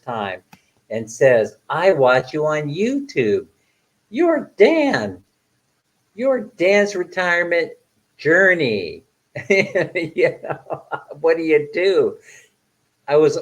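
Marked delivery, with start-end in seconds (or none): 1.7-12.2 excited fan. Retold or imitated. Fan recognizing him.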